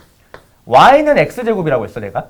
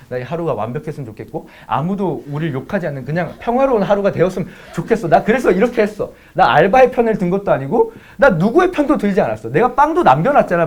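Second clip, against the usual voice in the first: rapid-fire self-defence; 2 semitones higher than usual. Retold or imitated. Boyfriend insisting he took no side, rapid-fire and building. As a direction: plead your case without stopping, rising as you go. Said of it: "막 존나 빠르게 얘기했어".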